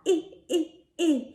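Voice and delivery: eh as a strained reaching grunt; eh, eh, eh, like reaching up high; little I sound; short I sound. Shown as a demonstration. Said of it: "the sound of the little I".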